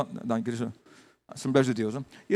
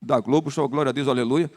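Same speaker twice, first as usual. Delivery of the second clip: pastor mocking celebrities' easy praise, mock exclaim; mock careless hallelujah; 4 dB louder than usual. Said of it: "Qualquer coisa que acontece aí".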